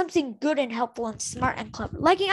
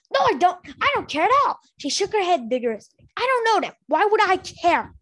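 higher, louder stubborn denial; lightly voiced Snowfall in denial; 4 semitones higher, 4 dB louder than usual. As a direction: insist too hard that she doesn't care. Snowfall denying, held.

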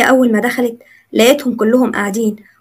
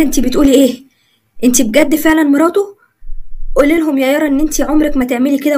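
higher, pressing demand; angry father; 4 semitones higher than usual. Acted. Father demanding his daughter deny the marriage. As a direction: confront her, desperate and furious.

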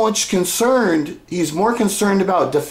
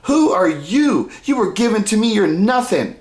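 belittling father; 2 semitones higher than usual. Retold or imitated. Father talking down to his son, mock belittling. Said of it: "That's how he talks".

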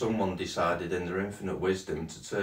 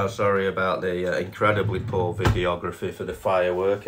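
louder, mock-formal apology; 7 dB louder than usual. Real, not acted. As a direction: announce the apology to viewers. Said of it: "so say you're sorry".

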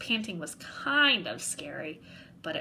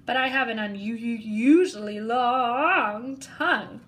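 slurping; 5 dB louder than usual. Acted. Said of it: "Mac slurped".

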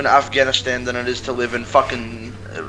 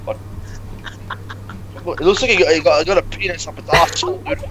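ordinary delivery

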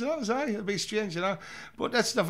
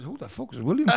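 laughing; 4 semitones higher than usual. Retold or imitated. Retold own reply, laughing.

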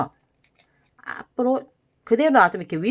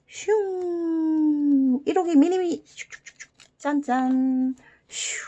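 high, drawn-out whoosh and happy sounds; a teacher making toy noises for kids; playful toy sounds; 6 semitones higher, much slower than usual. Pretend. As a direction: zoom the toy along with a sing-song voice. Toy cars flying, combining.

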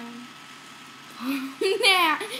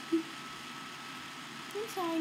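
whisper; 15 dB quieter, much slower than usual. Real, not acted. Apologising to the dog.

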